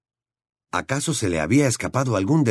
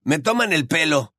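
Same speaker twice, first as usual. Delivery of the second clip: incredulous protest; 7 semitones higher than usual. A narrator's reading. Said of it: "protestó Ron, incrédulo".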